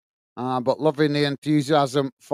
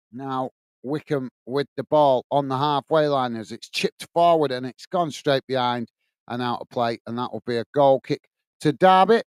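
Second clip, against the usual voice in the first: measured football commentary; live play-by-play; 3 semitones lower than usual. Real, not acted. Match commentator telling stream viewers it's a goal kick, measured play-by-play. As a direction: call the match steadily as it unfolds.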